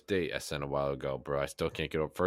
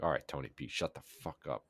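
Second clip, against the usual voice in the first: exasperated mutter; 2 semitones lower, 6 dB quieter than usual. Retold or imitated. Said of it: "sometimes I'm like".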